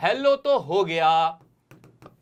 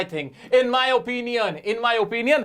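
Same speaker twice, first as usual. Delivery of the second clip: casual demo; 5 semitones lower, much slower than usual. Shown as a demonstration. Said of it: "अब तुम्हें मुंह पे ये रहना चाहिए".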